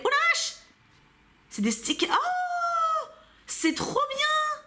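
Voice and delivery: high-pitched delighted squeal over stickers; excited squeal. Real, not acted. Unboxing stickers for her viewers, a high excited squeal. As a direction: squeal with sudden joy, pitch shooting up.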